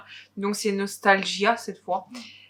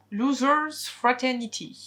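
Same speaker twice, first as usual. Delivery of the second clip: slow, slightly higher English accent on "Losers Fraternity"; mock English accent; 4 semitones higher, slower than usual. Shown as a demonstration. Booktuber announces an English title, self-mocking English accent. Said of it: "Avec mon accent anglais parfait".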